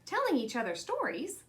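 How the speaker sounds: puzzled question, rising at the end. Acted. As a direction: repeat the child's words back, puzzled. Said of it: "Mama glanced questioningly at Tanya".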